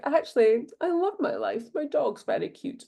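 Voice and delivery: sweet gratitude. Retold or imitated. Host voicing a grateful listener, gently delighted. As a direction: gush sweetly over your life.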